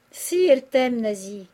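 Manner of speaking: loud, insistent protest that eases on the name; father's cry. A narrator's reading. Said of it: "cria le père Goriot".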